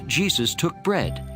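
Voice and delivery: ordinary talk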